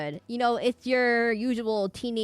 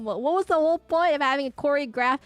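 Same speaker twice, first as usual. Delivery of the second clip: incredulous complaint; 5 semitones higher than usual. Retold or imitated.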